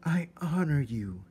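a small knight's vow; mouse declaring. A narrator's reading.

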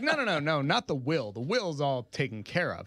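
a hint of an eager mother; imitating mom. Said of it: "she's like".

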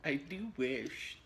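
lightly imitated friend, slow and drawn out; slow mimicking echo; Layla. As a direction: stretch out WISH in a playful copy. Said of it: "That sounded like Layla".

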